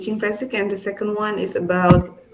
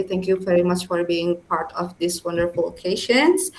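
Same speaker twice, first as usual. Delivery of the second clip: formal closing; 2 semitones higher, much slower than usual. Real, not acted.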